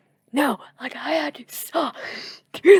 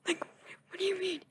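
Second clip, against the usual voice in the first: incredulous retort; 9 semitones higher than usual. Retold or imitated. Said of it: "I'm like".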